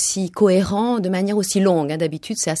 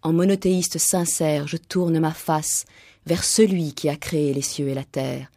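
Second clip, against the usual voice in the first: solemn scripture reading; 2 semitones lower than usual. Acted. Host reading the Quran story of Abraham on air, solemn and measured. Reads a Quran passage aloud.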